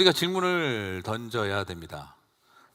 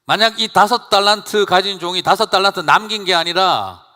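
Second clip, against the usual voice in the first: loud, emphatic preaching that builds; preaching at full force; 5 semitones higher, 10 dB louder than usual. Acted. Pastor pressing the congregation with the parable, loud emphatic preaching. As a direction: drive the hypothetical home, pressing hard. Preaching climax, rising intensity.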